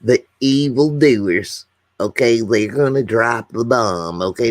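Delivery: lightly put-on folksy presidential voice; a hint of a president's impression, drawing out the opening; George Bush impersonation. Livestreamer playing a president announcing bombs, light impersonation. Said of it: "that's my George Bush impersonation".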